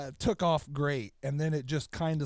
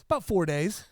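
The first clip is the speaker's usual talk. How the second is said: laughing retelling; 8 semitones higher than usual. Retold or imitated. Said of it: "he goes".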